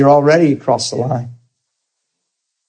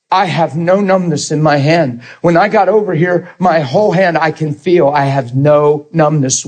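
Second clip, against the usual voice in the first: retold amazement, slightly raised voice; really emotional; 2 semitones higher than usual. Healed man telling the preacher about his hand, emotional. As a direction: imitate a man astonished by his own hand. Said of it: "And he's really emotional".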